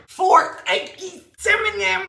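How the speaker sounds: put-on slow, high cutesy baby voice. Adding the egg, a slow high cutesy voice. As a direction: coo it like baby talk.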